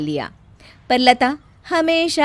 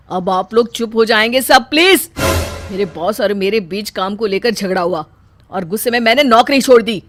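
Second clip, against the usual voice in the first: loud, quickening snap; frustrated outburst; 6 dB louder than usual. Acted. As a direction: silence the family, fed up. Son snaps at family.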